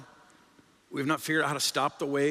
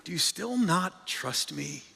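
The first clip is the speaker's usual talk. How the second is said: a touch of tender reassurance; gentle; slower than usual. Shown as a demonstration. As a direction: ask it gently, as a caring friend. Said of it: "here's what I understand Jesus to be saying".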